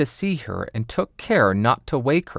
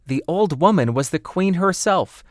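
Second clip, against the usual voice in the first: higher, earnest dwarf voice; dwarves' warning; 6 semitones higher than usual. Acted. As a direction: warn her gravely as little dwarves. Dwarves warn Snowdrop.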